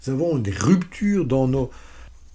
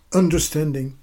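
"understanding" in a French accent; English word said the French way. Real, not acted. Lecturer to students, word in French accent. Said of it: "excusez mon superbe accent anglais".

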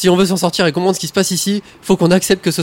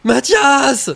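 alarmed outburst; 9 semitones higher, 3 dB louder than usual. Acted. Panicked outburst at strange news.

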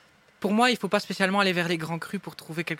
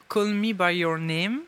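slow English title in a French accent; careful French-accented English; slower than usual. Real, not acted. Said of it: "vous adorez mon accent anglais".

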